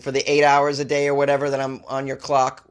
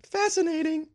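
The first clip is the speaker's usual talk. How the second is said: a sarcastic mock-impressed voice; mock posh voice; 4 dB quieter than usual. Comic reaction in odd voice.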